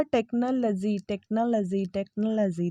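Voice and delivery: "टेक्नोलॉजी" said as TEK-nuh-luh-zee; short unstressed "luh" in "टेक्नोलॉजी", not "law"; correct pronunciation. Shown as a demonstration. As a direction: model "टेक्नोलॉजी" with a reduced third syllable. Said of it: "जो आपका उच्चारण है वो होगा".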